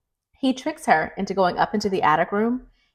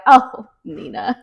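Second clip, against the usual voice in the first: laughing it away; slower than usual. Retold or imitated. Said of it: "he just laughs it away".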